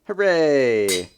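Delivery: loud happy cheer. Real, not acted. Celebrating repair.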